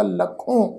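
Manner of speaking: "ਲੱਖੋਂ" with a nasalised final o; nasal tone. Shown as a demonstration. Teacher showing how it is read, "ਲੱਖੋਂ" ending nasally. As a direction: finish "ਲੱਖੋਂ" through the nose. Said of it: "ਬਿੰਦੀ ਸਹਿਤ ਨਾਸਕੀ tone ਵਿੱਚ ਪਾਠ ਉਚਾਰਨ ਹੋਏਗਾ".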